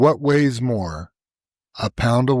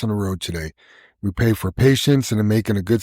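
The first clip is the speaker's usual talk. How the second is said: steady, earnest prayer voice. Real, not acted. Leading the crew in prayer before the day's trucking, earnest. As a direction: lead the group in a plain spoken prayer.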